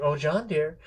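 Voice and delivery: mildly patronizing endearment; condescending wife. Retold or imitated. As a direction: lightly talk down to a husband. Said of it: "she's now condescending to him".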